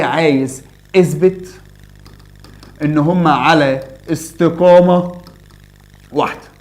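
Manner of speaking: slow quoted request. Retold or imitated. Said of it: "قال لي".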